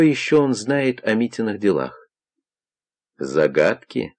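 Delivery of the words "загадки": ЗАГАДКИ with a rising, questioning end; echo question. A narrator's reading. Zotov echoes the young man's word, questioning ЗАГАДКИ. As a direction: ask ЗАГАДКИ back, starting low and lifting. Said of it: "переспросил Зотов".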